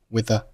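with the as "wi-the", both weak; with the merged on a single th; silent th. Shown as a demonstration. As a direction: drop the th ending of with, keep the's. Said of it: "with结尾的th不发音".

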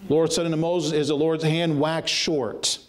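quick at first, then dragging out each phrase; fervent scripture reading. Acted. Preacher reading God's rebuke, rising and slowing. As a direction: build the verse like a sentence being passed.

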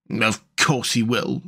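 mild amused chuckle in the words; slow, knowing amusement; chuckling. Acted. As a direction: say it with a touch of a chuckle. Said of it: "chuckled the otter".

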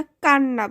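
কান্না with no d and a doubled n; silent d. Shown as a demonstration. Teacher showing how we say it, কান্না with double n, no d. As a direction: say কান্না as "kan-na", holding the n. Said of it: "দটা উচ্চারণ করতেছি না".

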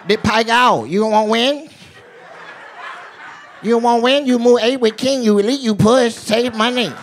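high-pitched mock Asian dealer accent. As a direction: advise the player in a comic Asian dealer accent. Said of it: "Asian dealers are the best".

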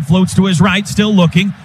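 rising call as he scrambles; building play-by-play. Real, not acted. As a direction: build the tension to the throw.

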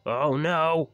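high, very loud wail; big panicked shout; alarmed cry. A narrator's reading. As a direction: cry out loudly in dismay. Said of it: "cried James".

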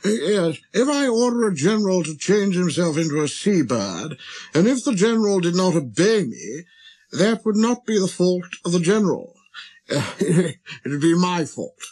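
high, pompous explaining voice; reasonable king. Acted. King giving an example of reasonable orders, high and pompous. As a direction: expound your authority as a monarch.

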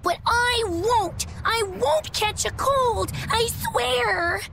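put-on drawn-out childish protest; whiny insistence. Child denying she'll catch cold, whiny insistence. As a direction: insist like a stubborn child, stretching words.

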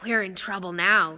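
slightly hoarse worry; a touch of husky dread; understated hoarse realisation; Ron, hoarse. Acted. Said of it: "he said hoarsely".

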